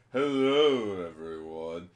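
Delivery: lightly hammed-up, drawn-out greeting; theatrical entrance. Doctor Psyche showing up, lightly grand introduction. Character's showy entrance acted out.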